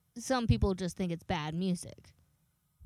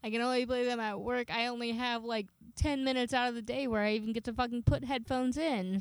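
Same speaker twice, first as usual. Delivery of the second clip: crying while arguing; 4 semitones higher than usual. Real, not acted. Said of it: "I'm crying".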